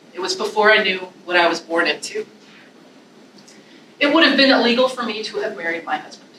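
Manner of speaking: measured, heartfelt poem reading; reading a poem aloud with feeling; poetry reading. Shown as a demonstration. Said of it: "this is in Vivi's voice speaking to that photograph".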